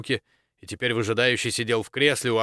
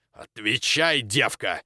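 raised, high-pitched angry demand; angry tirade; 5 semitones higher, 4 dB louder than usual. A narrator's reading. Baron berates the dean over his bedroom's protection, angrily. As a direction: build into a loud, indignant rant.

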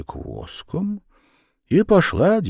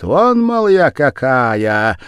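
хвастливо, с хохотом; 5 semitones higher, 8 dB louder, slower than usual. A narrator's reading. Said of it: "хохочет".

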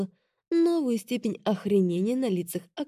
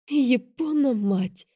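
slow exclamation; 5 semitones higher, much slower than usual. A narrator's reading. After laughing fit.

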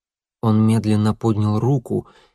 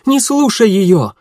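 high, loud, slow cry; urgent exclamation; 9 semitones higher, 6 dB louder, slower than usual. A narrator's reading. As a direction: warn him urgently. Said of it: "воскликнула Едвига". (громкое тревожное восклицание)

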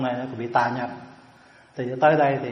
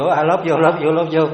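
mocking loud repeat; 2 semitones higher, 5 dB louder, slower than usual. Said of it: "là thuộc chỗ".

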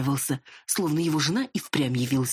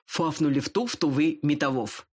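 lisping man, lightly voiced; slushy lisp. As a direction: lisp every s into f. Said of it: "шепелявый". (шепелявый голос)

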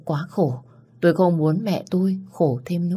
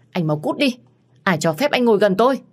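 high, loud furious order to leave; angry shout; 6 semitones higher, 4 dB louder than usual. A narrator's reading. Phương yelling at Phong to get out, furious shout. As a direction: drive the ex out with a yell. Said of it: "Tôi quát lớn".

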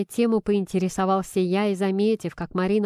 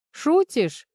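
sharp high surprised question; disbelieving, jumping up in pitch; 8 semitones higher than usual. A narrator's reading. Nikita surprised at Marina's question, high disbelief. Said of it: "удивился я".

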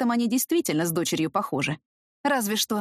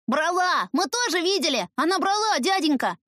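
put-on high, eager kids' voices; children insisting; 9 semitones higher than usual. Children tell the man the woman stole, high eager voices.

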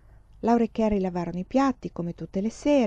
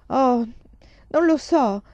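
high, loud burst of frustration; exasperated; 5 semitones higher, 4 dB louder, slower than usual. A narrator's reading. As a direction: blurt it out at the end of your patience. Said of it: "disse Laura esasperata".

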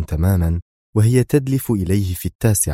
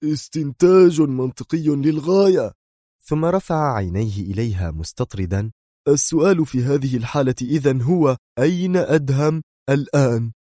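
agitated; 6 semitones higher than usual. A narrator's reading. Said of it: "بدا عليه الانفعال".

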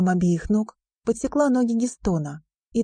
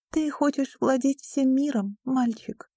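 pitying headmistress; 6 semitones higher than usual. A narrator's reading. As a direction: feel sorry for the boy. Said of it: "с жалостью посмотрела".

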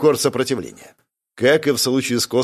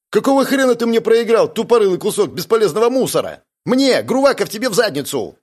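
furious roar; 9 semitones higher than usual. A narrator's reading. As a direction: scream it at the loser. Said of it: "Рёв Зарины".

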